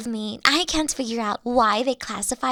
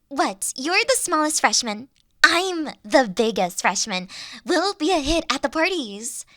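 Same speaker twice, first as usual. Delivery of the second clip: ordinary talk, nothing marked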